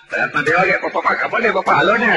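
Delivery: put-on high, loud whining child call; pleading child's cry for papa. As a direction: call out to papa like an urgent kid. Child calling father at night.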